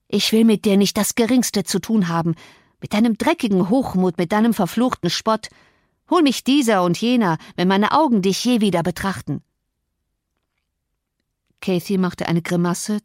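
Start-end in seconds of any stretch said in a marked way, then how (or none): 0.1-9.4 understated contemptuous rejection; mildly voiced angry cousin. Cousin rejects Cathy's appeal, mildly angry. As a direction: reject them with a touch of scorn.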